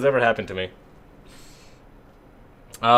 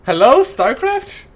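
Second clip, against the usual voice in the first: high, loud exasperated cry; exasperated disbelief; 12 semitones higher, 5 dB louder than usual. Real, not acted. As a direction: throw up your hands in disbelief. Exasperated at computer glitch.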